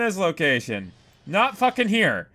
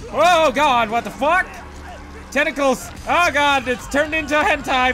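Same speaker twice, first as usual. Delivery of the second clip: hammed-up panic; 8 semitones higher than usual. Gamer pleading with tentacles on screen, hammed-up panicked yelps. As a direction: beg it to stop in half-joking terror. Tentacles attack in horror game.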